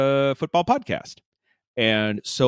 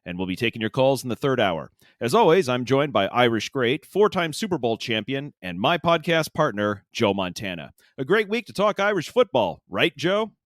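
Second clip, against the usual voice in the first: upbeat mock sports-radio host read; hammed-up sports show opener; sports podcast host. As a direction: play the slick football-podcast host.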